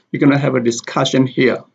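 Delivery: quick sentence with "discussion" stressed on "cuss". Shown as a demonstration. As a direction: run quickly into "disCUSSion here", stressing both words. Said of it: "The stress is on the word discussion".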